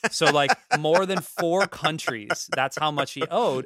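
slow, loud, laughing through the words; laugh-laden disbelief; laughing while talking. Real, not acted. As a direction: crack up at the absurdity. Laughing at absurd debt.

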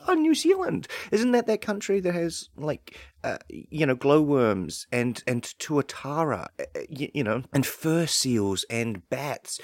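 mock clueless foreigner, pitch jumping high at the start. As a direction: play a puzzled outsider who has barely heard of New Zealand. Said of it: "people hadn't heard, like".

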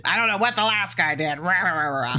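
griping that runs off into babble; mock griping. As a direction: lightly mimic a grumbling technician. Mimics repairman griping about predecessor.

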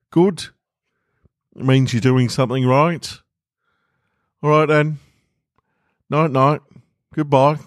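Walter urging. Acted. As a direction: push him gently to let go. Walter bidding farewell.

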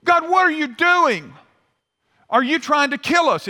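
high, loud-ish accusing wail; mock indignant protest thrown at God; grumbling at God. Israelites complaining to God about the danger, grumbling. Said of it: "they were grumbling at God".

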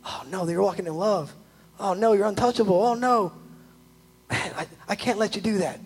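soft mock dismay of the enemy; a lightly voiced worried devil; the enemy fretting. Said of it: "if I could keep you angry".

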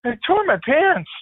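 slowed hammed-up confession. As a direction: drag it out, comically resigned. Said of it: "He goes".

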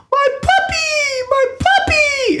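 imitated wail in a piercing falsetto, very slow; mock a frantic, drawn-out squeal; high-pitched screaming. Storyteller imitating a frantic puppy owner, high-pitched screaming. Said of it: "loud voices and high-pitched screaming".

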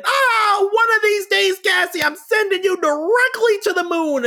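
high, loud cartoon bluster; mock Honeymooners threat. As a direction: shake a fist like a sitcom husband. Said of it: "other than".

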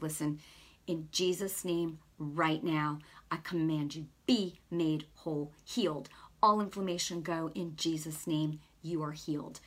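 low, measured prayer of command; retold healing prayer. Retold healing prayer over clerk.

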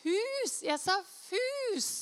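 loud, high-pitched denial; hammed-up indignant correction; flustered protest. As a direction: protest in mock panic, dragging out the last word. Retold flustered protest at misunderstanding.

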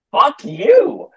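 high, loud shouted retort; shouted curse. Retold or imitated. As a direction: yell it right back at them. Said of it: "And I'm like".

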